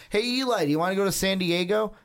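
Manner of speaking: hammed-up eager father asking his son, fast; eager dad voice. Archie voiced asking Eli.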